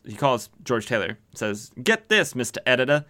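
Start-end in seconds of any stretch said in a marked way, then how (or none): 1.8-3.0 put-on higher-pitched gangster accent sliding into southern; gangster turning southern. Gangster phoning a threat to an editor, botched gangster-to-southern accent. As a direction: start as an old-movie gangster, drift into southern. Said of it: "like, gangstery, but then it turned southern".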